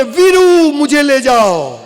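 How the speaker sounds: high, loud mock filmy call; calling out from afar. Heroine shouting to Veeru from afar, high and loud. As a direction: yell for the hero from a distance. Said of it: "દૂરથી બૂમ પાડે".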